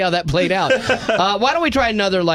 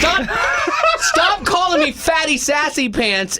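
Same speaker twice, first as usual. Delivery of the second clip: laughing exasperation; 10 semitones higher, slower than usual. Real, not acted.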